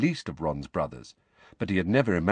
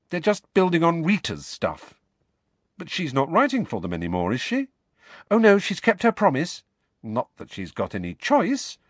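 put-on much higher, brisk girl's voice; Hermione, explaining; 8 semitones higher than usual. A narrator's reading. Hermione explains Rita's role to Harry, brisk. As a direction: Hermione laying out the facts.

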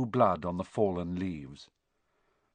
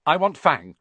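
a higher, louder blurted demand; quick demand; 6 semitones higher, 8 dB louder than usual. A narrator's reading. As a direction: get your claim in first, loudly. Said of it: "said Malfoy quickly".

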